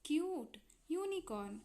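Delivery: "क्यूट, यूनिकॉर्न" with a long यू; long vowel demo. Shown as a demonstration. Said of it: "इसकी long sound क्या हो गई".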